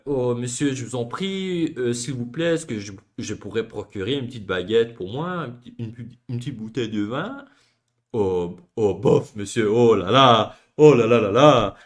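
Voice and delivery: low, affected Parisian French put-on; hammed-up snobbish diner from France, oh là là; mock a fussy, snooty Parisian accent. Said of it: "snooty a little bit".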